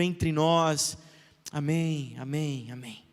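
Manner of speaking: earnest prayer voice. Acted. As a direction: pray over the congregation.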